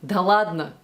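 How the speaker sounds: "Да ладно" peaking on "лад", then falling; exact Russian intonation. Shown as a demonstration. Coach echoing a phrase she usually says, native intonation. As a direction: punch "ладно" and let it drop. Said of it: "with that exact intonation".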